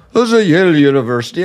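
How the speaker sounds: badly faked stuffy Yale accent; hammed-up stuffy accent, not quite landed. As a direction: attempt a stuffy university accent, quickly. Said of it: "I can't do the stuffy accent".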